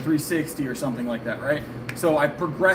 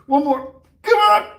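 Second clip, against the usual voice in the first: straining, high and loud; lifting weights; 14 semitones higher, 7 dB louder, slower than usual. Real, not acted. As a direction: push through the rep, teeth clenched. Pushing through last reps.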